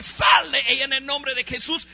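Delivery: loud, firm exorcism command; commanding rebuke. Retold or imitated. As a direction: order the spirit out with authority. Casting out the demon.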